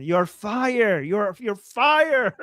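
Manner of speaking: "fire" drawn out slowly with no final d; teasing, the "fire" stretched slowly; mock quote. Teasing the co-host with the botched line, drawn out. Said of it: "this is a compliment".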